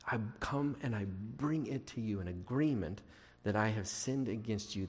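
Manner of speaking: low, soft voice of admitting fault; humble confession. Acted. Praying person owning their sin to God, humble and hushed. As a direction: confess it quietly, pitch dropped.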